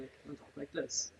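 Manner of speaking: low-key radio voice, softening at the end; low-key oldies host. Shown as a demonstration. Radio host showing his Saturday night oldies voice, low key. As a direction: ease down into a quiet, understated delivery. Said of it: "I'm gonna talk kinda low key".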